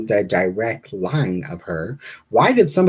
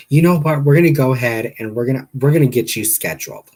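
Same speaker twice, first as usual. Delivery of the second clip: louder receptionist impression, starting high; put-on phone-desk voice; 4 semitones higher, 7 dB louder than usual. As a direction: imitate a brisk call handler. Receptionist voiced in retold call.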